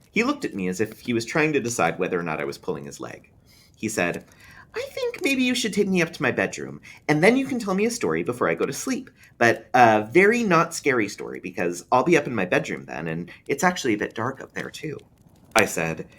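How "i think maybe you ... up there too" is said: put-on higher child voice, a little scared of the dark; boy talking himself into bed; young boy, earnest and wary; small boy. A narrator's reading. Boy asks to go up.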